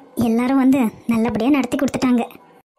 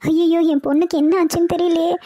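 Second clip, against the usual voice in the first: mild wailing lament; 3 semitones higher than usual. Acted. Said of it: "இப்படியே அழுதுட்டு இருந்தா எப்படி?".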